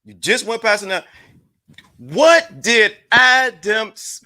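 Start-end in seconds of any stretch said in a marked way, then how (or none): 2.0-4.2 very slow, drawn out; spelled out slowly for the chat. Shown as a demonstration. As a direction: stretch each word for the slow ones. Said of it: "let's say it for slowly".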